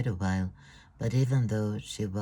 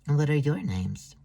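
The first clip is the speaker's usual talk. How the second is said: higher, louder delighted question; cooing; 6 semitones higher, 5 dB louder than usual. Acted. Thea coos at the little one, delighted. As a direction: coo over the cute little girl.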